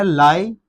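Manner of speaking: लाइब्रेरी broken as LAI... bruh-ree; correct pronunciation. Shown as a demonstration. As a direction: show लाइब्रेरी in parts with a short bruh. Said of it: "actually ये word है". (लाइब्रेरी सही, लाइ... ब्ररी)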